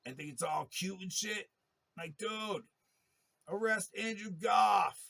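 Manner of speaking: yelling at the attacker in front of everyone, climbing into a furious shout; building to a furious shout. Retold or imitated. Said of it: "I said".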